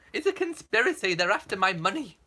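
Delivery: hammed-up paranoid outburst; mock alarm.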